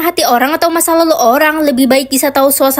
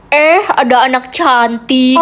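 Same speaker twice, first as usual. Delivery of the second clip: lightly voiced creepy man, slow and lower; creepy stranger; 4 semitones lower, slower than usual. Strange man spotting a girl alone, creepily. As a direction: draw out a leering greeting.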